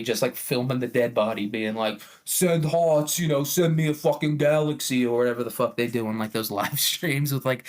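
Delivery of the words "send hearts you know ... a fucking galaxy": higher, mock livestream begging voice; gay Italian livestreamer. Gay Italian killer on Facebook Live to viewers, mock needy streamer. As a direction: plead with viewers, lightly hammed up. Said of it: "he would have gone on Facebook Live".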